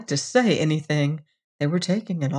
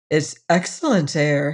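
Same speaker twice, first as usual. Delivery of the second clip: mouth full. Acted. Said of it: "he continued through a full mouth".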